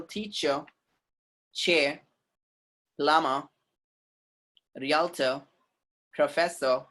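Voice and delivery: teacher, chair, plumber, realtor, professor with no final R; British silent R. Shown as a demonstration. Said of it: "they keep that R silent".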